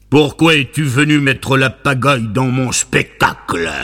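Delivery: léger ogre enrhumé; à peine grondé, en ogre enrhumé. Acted. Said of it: "d'une voix d'ogre enrhumé du cerveau". (un soupçon d'ogre enrhumé)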